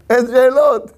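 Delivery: emphatic refrain. Shown as a demonstration. Preacher to congregation, exclaiming אין שאלות emphatically. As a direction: proclaim אין שאלות with rising force. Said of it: "repeated refrain, second louder".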